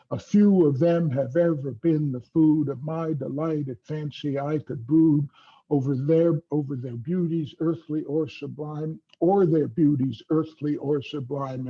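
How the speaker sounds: da-DUM beat all through, from "A few of them" to "disturbance rude"; exaggerated metrical stress. Shown as a demonstration. Lecturer demonstrating Keats's iambic meter to make a point, exaggerated metrical stress. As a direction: chant the verse in iambs, leaning on every second syllable. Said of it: "I'll emphasize the metrical character of the line".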